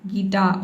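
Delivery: गिटार with the r dropped, English style; English guitar. Shown as a demonstration. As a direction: say गिटार as gi-taa-uh, with no r. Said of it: "अ का sound दे देना है".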